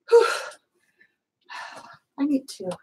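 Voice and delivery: usual speaking voice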